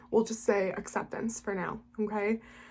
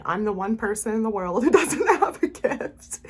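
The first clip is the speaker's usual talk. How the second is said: imitating own old self-pity, breaking into laughter; self-mocking former self; 6 dB louder than usual. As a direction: laugh through a mock complaint about yourself. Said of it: "I would be like".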